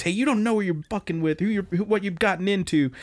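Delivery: mock angry biker. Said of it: "He is super pissed".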